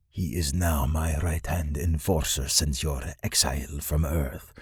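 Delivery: lightly voiced stately lord; Lord Noskov.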